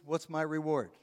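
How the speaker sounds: mock selfish quip, light and dry; joking self-interest. Husband answering his wife's request, mock selfish. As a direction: toss it off as a cheeky husband. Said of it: "my response is".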